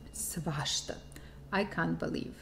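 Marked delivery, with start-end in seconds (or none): 0.1-0.9 surprised. Shown as a demonstration. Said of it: "with this intonation of surprise".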